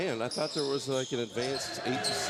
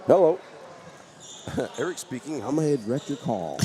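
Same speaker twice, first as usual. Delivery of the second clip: switchboard operator; 3 semitones higher, 4 dB louder than usual. Pretend. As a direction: answer like a cheerful telephone operator. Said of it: "Buffalo Center switchboard".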